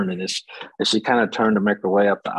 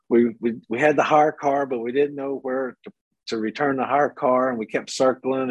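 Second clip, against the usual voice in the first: pitiful flustered tourist; 4 semitones higher than usual. Retold or imitated. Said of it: "this old poor, pitiful American tourist".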